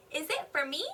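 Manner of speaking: "me" swoops up at the end; question intonation. Shown as a demonstration. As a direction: ask it, voice climbing on "me". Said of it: "My voice goes higher at the end".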